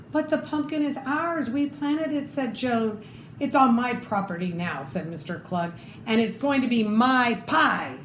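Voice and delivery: lively read-aloud storytelling voice; story narration. Acted. Reading a picture book to children, lively storytelling.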